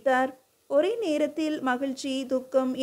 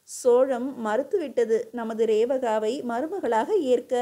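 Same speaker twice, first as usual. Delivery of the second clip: usual speaking voice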